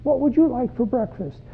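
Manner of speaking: high, sing-song mother's greeting; cheery mom. Acted. Mom asking her six-year-old about breakfast, in a high cheery voice. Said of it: "Mom looks at the six-year-old and says".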